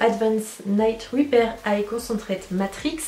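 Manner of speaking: careful, self-conscious French take on English; French-accented English. Real, not acted. Beauty vlogger stumbling through a long English product name, slow French-accented English. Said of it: "avec mon accent anglais c'est formidable".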